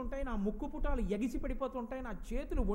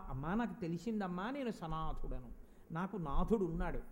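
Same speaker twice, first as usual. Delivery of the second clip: devotee's tender realisation; 6 semitones lower than usual. Retold or imitated. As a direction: confide it to the Mother in a lowered voice. Voicing devotee addressing the Mother. (అమ్మతో తగ్గు స్వరంలో ఆర్తిగా చెప్పడం)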